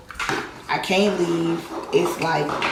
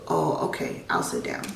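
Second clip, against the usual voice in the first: meek surrender; 2 semitones lower, 5 dB quieter than usual. Retold or imitated. Giving in to his threat.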